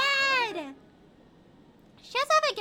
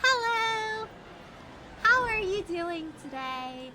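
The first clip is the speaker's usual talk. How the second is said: high, slower muffled-ear voice; higher pitched voice; 4 semitones higher, slower than usual. Real, not acted. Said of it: "You have a higher pitched voice".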